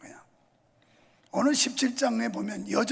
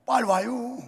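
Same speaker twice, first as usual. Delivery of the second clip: Chungcheong dialect; 3 dB louder than usual. Retold or imitated. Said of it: "충청도는".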